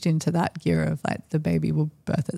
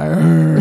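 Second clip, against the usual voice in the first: deep growl; 7 dB louder than usual. Retold or imitated. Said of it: "like, that really deep".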